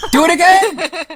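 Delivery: loud, high, real laughing outburst; laughing shout. Real, not acted. Game master reacts to tied rolls, laughing loudly. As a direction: burst out through laughter.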